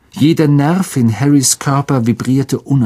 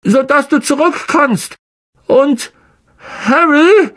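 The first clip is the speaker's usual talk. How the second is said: trying to sound calm, voice high; forced calm; 3 dB louder than usual. A narrator's reading. Ron to Harry before he leaves: forced calm. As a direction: keep it steady though afraid. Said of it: "seine Stimme ruhig klingen zu lassen".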